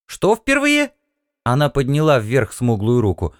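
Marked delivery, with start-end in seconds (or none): 0.1-0.9 puzzled question. Acted.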